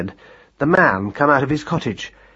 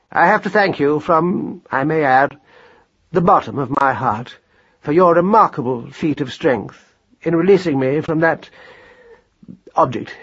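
mildly pompous speech of thanks; wordy father's measured oration; formal speech; 2 semitones higher than usual. A narrator's reading. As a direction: thank your son with careful formality. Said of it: "deliver a short, formal speech".

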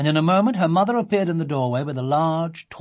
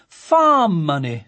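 slow, louder, full of approval; admiringly; 3 semitones higher, 9 dB louder, much slower than usual. A narrator's reading. A father praising his daughter's sale, slow admiring voice. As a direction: savour it with proud admiration. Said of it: "said Sophie's father admiringly".

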